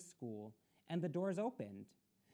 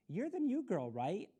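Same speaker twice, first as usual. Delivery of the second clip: bright, higher, cheerful question; 5 semitones higher, 5 dB louder than usual. Acted. Curly-haired boy cheerfully greeting the new girl. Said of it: "he asked cheerfully".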